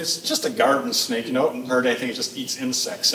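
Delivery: low, easy, understated explanation; calm reassuring dad. Retold or imitated. Dad showing son a harmless snake, calm and reassuring.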